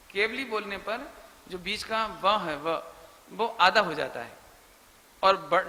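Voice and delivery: ordinary delivery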